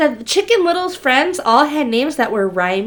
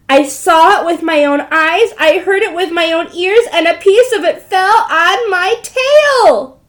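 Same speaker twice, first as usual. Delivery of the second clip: frantic chick; 5 semitones higher, 5 dB louder than usual. Acted. Chicken Little repeats her claim.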